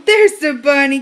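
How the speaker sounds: playful surprise. Acted. Finds the bunny with toddler.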